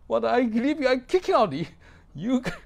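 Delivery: high, loud insistence; emphatic declaration. Real, not acted. Pastor insisting he threw the man out, loud. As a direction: declare it firmly. Recalls kicking him out.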